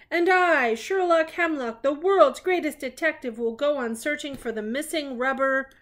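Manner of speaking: high, loud pompous detective proclamation; Sherlock Hemlock voice. Acted. Reading Sherlock's boast to the child, pompous and loud. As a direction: announce yourself like the world's greatest detective.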